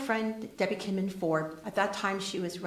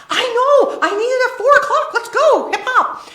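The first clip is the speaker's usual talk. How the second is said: much higher, much louder laughing pep talk; laughing urgency; 18 dB louder than usual. Retold or imitated. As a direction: cheer her on while laughing. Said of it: "She goes".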